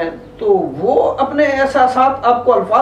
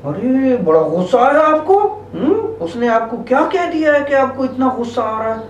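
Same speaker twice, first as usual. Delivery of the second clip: calm acknowledging; 2 semitones higher than usual. Shown as a demonstration. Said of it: "इस बच्ची को आप क्या कहेंगे".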